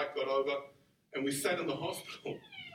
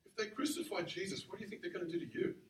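softer, earnest warning; all seriousness; 3 semitones higher, 6 dB quieter than usual. Retold or imitated. Hurt pastor warning his young friend, with all seriousness. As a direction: put the question gravely, quickening at the end. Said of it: "with all seriousness".

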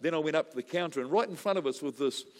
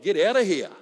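louder, laughing get out of here; incredulous exclamation; 4 semitones higher, 10 dB louder than usual. Retold or imitated. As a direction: blurt it out in amused disbelief. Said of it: "And I'm like".

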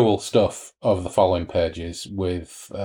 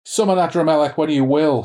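high, thin shrill cry; shrill it out like a zealot; 6 semitones higher, 4 dB louder than usual. A narrator's reading. Madeline shrills to the summoned devils, high and thin. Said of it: "she shrilled".

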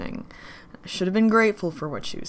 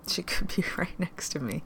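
hushed whisper; 5 dB quieter than usual. Acted.

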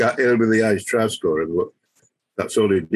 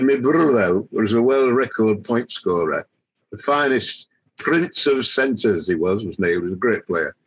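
put-on Yorkshire accent; slower than usual. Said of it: "in his Yorkshire accent".

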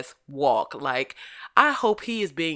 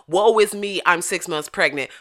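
mock self-pity; 6 dB louder than usual. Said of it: "But it's like".

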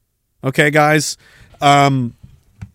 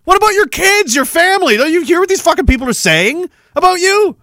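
exasperated friend; 11 semitones higher than usual. Retold or imitated. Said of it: "So you'll be like".

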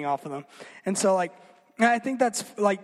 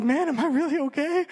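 mock self-doubt; 8 semitones higher than usual. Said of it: "then it made me question".

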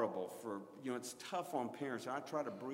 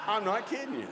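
laughing; 7 semitones higher, 4 dB louder than usual. Real, not acted. Laughs at the story.

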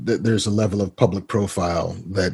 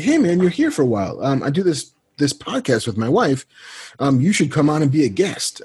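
lightly imitated friend, pitched higher; Kevin impression; 5 semitones higher than usual. Friend asking him onto a podcast, lightly imitated. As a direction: float a casual invite in his friend's voice. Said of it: "The way you do his".

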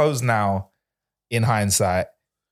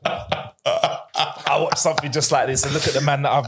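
mock wise elder. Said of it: "He's like".

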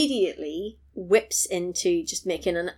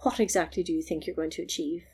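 supercilious; 3 semitones lower, 9 dB quieter than usual. Retold or imitated. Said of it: "very superciliously".

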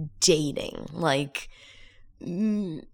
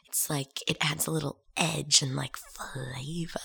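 whispering; 2 semitones lower, 6 dB quieter than usual. Real, not acted. Aside about her voice's edge.

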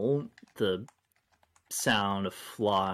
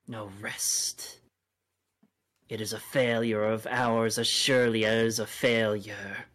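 feral snarling. Acted. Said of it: "She snarls again".

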